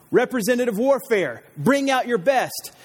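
lightly voiced boastful Goliath; mock Goliath taunt. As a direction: taunt like a bragging giant.

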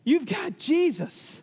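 high, slow, tender answer; gentle voice of the Spirit. Acted. Holy Spirit answering the believer, slow and tender. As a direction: answer slowly and gently, lifting it. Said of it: "the Holy Spirit says".

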